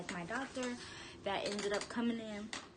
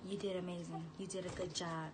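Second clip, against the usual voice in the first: dad's tender praise; 3 semitones lower, 5 dB quieter than usual. Retold or imitated. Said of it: "He was like".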